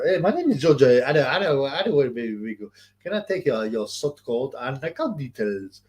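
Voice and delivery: lightly imitated scam caller; halting, slowing pitch for bank details; George prank caller. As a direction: play a comic phone scammer, slowing down. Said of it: "George was, was by far the best".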